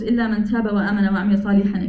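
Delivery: fast recited Arabic phrase; Quranic recitation. Acted. Teacher quoting the exception in the verse, quick recitation.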